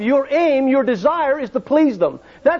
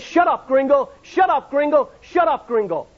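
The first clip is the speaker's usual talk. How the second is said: retold angry shout, going higher on shut up; angry brush-off; 3 semitones higher than usual. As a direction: snap the warning away like the pilot did. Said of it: "and he says".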